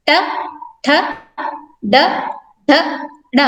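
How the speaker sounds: ट ठ ड ढ ण spoken singly with pauses; teacher reciting ट, ठ, ड, ढ, ण, each letter alone; consonant recitation. Shown as a demonstration. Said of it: "इन व्यंजनों का उच्चारण करें".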